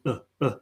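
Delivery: short neutral "uh, uh" from mid-mouth; "uh, uh" as an unstressed neutral vowel, no R; schwa sound. Shown as a demonstration. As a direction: say "uh, uh" as bare schwas. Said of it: "just that schwa sound".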